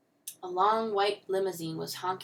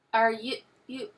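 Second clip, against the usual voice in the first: halting, higher-pitched question; hesitant start, then a louder, rising finish; shy; 5 semitones higher, 6 dB louder than usual. A narrator's reading. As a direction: stammer shyly into the question. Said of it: "she asked shyly".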